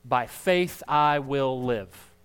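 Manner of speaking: slow, loud, firm declaration of faith; Bill's firm declaration. Retold or imitated. Pastor retelling Bill's choice to the congregation, slow firm declaration. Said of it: "Bill said".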